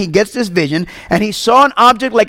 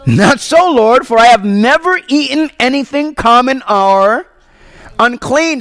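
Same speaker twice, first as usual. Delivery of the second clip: raised, higher earnest protest; Peter protesting; 3 semitones higher than usual. Acted. Peter refusing God in the vision, raised earnest protest. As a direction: refuse the command, pleading.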